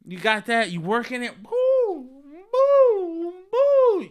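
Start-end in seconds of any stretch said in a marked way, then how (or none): 1.4-4.1 high, louder cooing boo; cooing girlfriend. Pretend. Girlfriend cooing at her man during a massage, high and pleased. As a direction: coo like she's melting under the massage.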